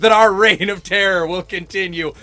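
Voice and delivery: hammed-up candidate promise; lightly voiced politician, laughing through; mock campaign pledge. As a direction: sell it like a stump speech. Continues mock presidential pitch.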